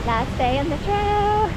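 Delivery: excited. Real, not acted. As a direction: announce it with real excitement. Excited final day announcement.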